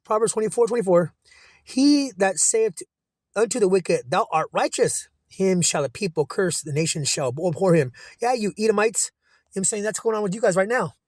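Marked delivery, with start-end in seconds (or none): 1.6-7.9 very slow, drawn-out solemn reading; scripture reading. Acted. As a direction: weigh every word of the verse. Reads scripture aloud.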